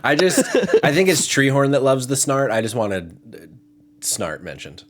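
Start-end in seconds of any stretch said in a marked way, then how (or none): 0.0-2.5 laughing. Real, not acted. Laughing about the snort.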